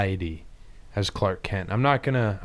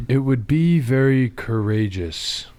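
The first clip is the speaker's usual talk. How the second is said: Superman voice; slower than usual. Acted. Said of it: "your Superman voice".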